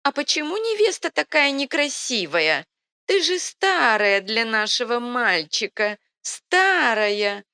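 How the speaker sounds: put-on very high, loud whining old woman; shrieking senile granny, childlike sulk; childish whine. A narrator's reading. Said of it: "по-детски законючила старуха".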